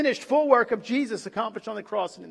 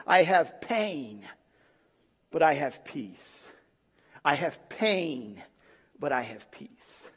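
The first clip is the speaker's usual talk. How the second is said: peaceful dying words; 8 semitones lower, 6 dB quieter than usual. Retold or imitated. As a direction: let each phrase settle into calm. Dying Puritan's peaceful last words.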